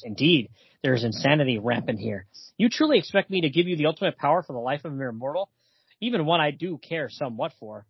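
a hint of a low, lordly vampire; lightly voiced Dracula. Retelling the game to a friend, lightly voicing Dracula. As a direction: read Dracula's lines low and haughty.

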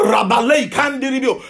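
punchy burst of tongues, demonstrated; speaking in tongues. Shown as a demonstration. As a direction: rattle off a sample of tongue speaking. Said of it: "So you go".

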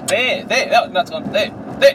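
high, loud excited calling out; excited pointing. Real, not acted. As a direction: point it out eagerly, voice jumping up.

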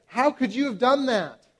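mock scolding parent. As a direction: lecture the kid, then trail off repeating. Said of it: "something like this".

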